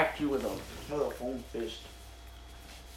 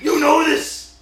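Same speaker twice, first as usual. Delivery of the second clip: higher villain line; 9 semitones higher, 6 dB louder, much slower than usual. Pretend. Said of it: "we're taking this bit too far".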